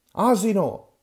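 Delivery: loud, high shouted insult. Acted. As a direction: yell it in his face.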